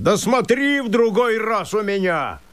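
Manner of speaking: высоко, с угрозой, без громкости; пригрози напоследок; грозный окрик. Acted. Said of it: "закричал он ему вслед". (лесник грозит мужику вслед)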